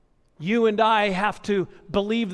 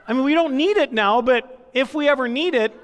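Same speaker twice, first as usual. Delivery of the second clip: laughing; 5 semitones higher, 5 dB louder than usual. Real, not acted. Laughing at himself.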